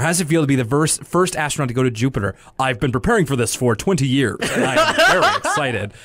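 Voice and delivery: lightly voiced earnest astronaut; mildly put-on older Arthur, proud and eager; stereotypical white guy voice. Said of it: "a stereotypical white guy voice".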